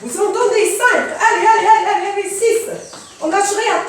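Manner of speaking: talking mid workout, effortful; exercising while talking. Real, not acted. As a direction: push through the moves while coaching. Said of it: "j'accélère mon rythme".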